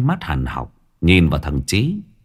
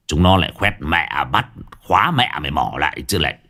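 a swaggering village thug boss, scornful; lightly voiced boss, sneering at old Tú; 4 semitones lower than usual. Gang boss mocking old Tú to his underlings, scornful.

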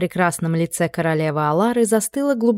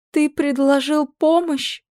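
high, slow astonished question; queen marvelling at her son's offer; exclaiming; 9 semitones higher, slower than usual. A narrator's reading. Queen exclaims in high mock astonishment. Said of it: "воскликнула".

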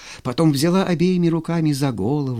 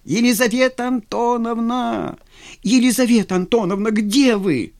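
calling out; 9 semitones higher than usual. Acted. Vladimir calling in the garden.

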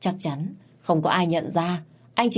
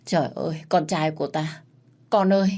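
sobbing mother. Acted. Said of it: "Bà nức nở nói với Thành".

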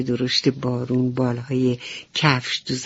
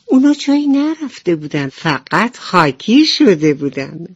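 a light amused chuckle in the voice; laughing reply; 3 semitones higher, 5 dB louder than usual. Acted. Butterfly laughingly explaining the spots were only dusty. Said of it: "شاپرک خندید و گفت".

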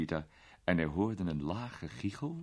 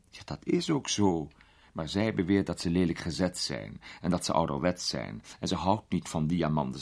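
a hint of a grand old lady, amused; an elderly duchess teasing a young man; lightly voiced duchess, amused.

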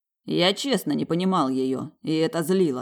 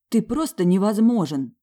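louder, higher exasperated line; 6 semitones higher, 6 dB louder than usual. A narrator's reading. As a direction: throw up your hands at him. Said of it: "покачала она головой".

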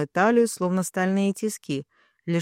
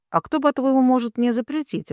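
defiant retort pitched higher; snapping back; 6 semitones higher than usual. A narrator's reading. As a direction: toss it back at him, higher and cheeky. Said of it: "огрызнулась я".

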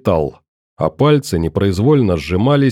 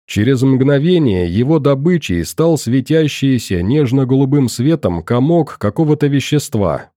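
ordinary delivery, nothing marked

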